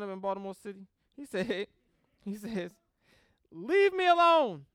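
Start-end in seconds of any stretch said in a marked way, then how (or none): 3.5-4.6 put-on loud, high childish whine; a kid yelling leave me alone; whiny kid. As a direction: whine it like a sulky Baltimore kid. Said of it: "don't he sound like a little kid".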